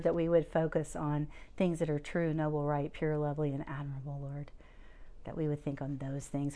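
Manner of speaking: measured, earnest spoken prayer. Real, not acted. Speaker closing the group in prayer, reverent.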